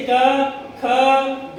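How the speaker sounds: "क", "ख", "ग" one by one, a pause after each; consonant sounds. Shown as a demonstration. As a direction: say "क, ख, ग" as separate Hindi consonant sounds. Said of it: "Hindi के व्यंजन अक्षरों से शुरू होना चाहिए उच्चारण".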